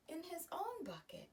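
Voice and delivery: hushed, breathy whisper. A narrator's reading. Narrator whispering to the children, hushed. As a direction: whisper it like a secret.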